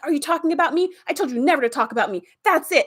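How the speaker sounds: menacing, then cut him off; angry ship. Retold or imitated.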